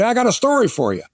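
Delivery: quoting the owner. Retold or imitated.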